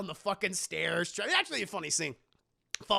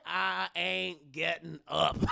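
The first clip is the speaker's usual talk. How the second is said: flat refusal; slower than usual. Acted. Acting unbothered Joe refusing.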